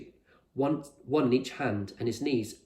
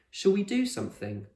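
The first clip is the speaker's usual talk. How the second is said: put-on much higher girl's voice; Lila's voice; 9 semitones higher than usual. A narrator's reading. Lila asking the others in the rain, higher and hopeful. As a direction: ask it hopefully.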